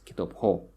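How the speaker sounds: kitop ho stressed on ho; stress on suffix. Shown as a demonstration. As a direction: put the weight on ho in kitop ho.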